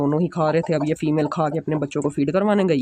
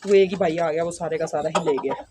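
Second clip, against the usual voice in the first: hushed near birds; 6 dB quieter than usual. Real, not acted. Close to the birds, talking low.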